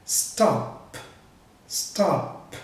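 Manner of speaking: "stop" ending in an unvoiced P; voiceless final P. Shown as a demonstration. Teacher showing learners a voiceless ending, "stop" with unvoiced P. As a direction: say "stop" with no vocal-cord buzz on the final P. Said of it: "não vibra quando você pronuncia o P".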